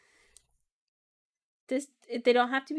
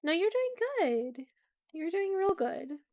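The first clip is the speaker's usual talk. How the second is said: slow gentle encouragement; reassuring; 4 semitones higher, slower than usual. Acted. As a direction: soothe them, slow and kind. Reassuring the character.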